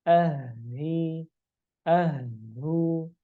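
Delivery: "ahi, ahu" with a pure light breathy H; clean light H. Shown as a demonstration. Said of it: "Ya, bukan aha". (ucapkan "ahi, ahu" dengan H tipis dan murni)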